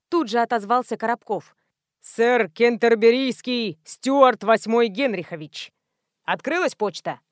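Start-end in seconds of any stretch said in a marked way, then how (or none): 2.0-5.7 slow, grand herald announcing a noble title; pompous announcer. Acted. Korobkov introducing himself as Sir Stuart, slow pompous herald.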